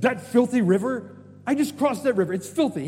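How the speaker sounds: high, loud indignant rant; angry. Acted. General objecting to bathing in Jordan, acted angry outburst. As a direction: play an insulted, disgusted general. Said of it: "he gets angry".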